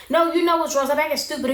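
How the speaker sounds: high-pitched mock indignation; indignant retort. Brittany answering Yazan's fake concern, retold indignant retort. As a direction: act out an annoyed comeback, pitched well up.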